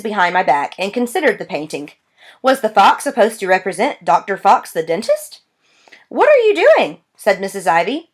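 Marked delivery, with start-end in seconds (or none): 6.1-7.0 high, sharp demand from the receptionist; sharp question. A narrator's reading. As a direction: receptionist snaps a suspicious question, pitched high. Receptionist challenges child.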